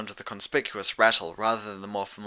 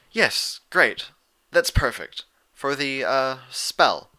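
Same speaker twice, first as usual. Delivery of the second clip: Twilight; 3 semitones higher, 4 dB louder, much slower than usual. Acted. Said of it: "Twilight commented".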